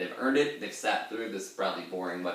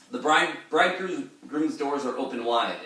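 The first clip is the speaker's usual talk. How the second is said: higher, louder declaimed line; dramatic reading; 5 semitones higher, 5 dB louder than usual. Shown as a demonstration. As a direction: recite it with stage flair.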